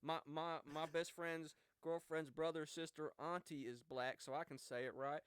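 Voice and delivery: a clumsy attempt at a wannabe ghetto accent that slides country; a poor put-on accent, slowed on best friend's girlfriend's brother; bad accent. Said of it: "that was a really bad accent".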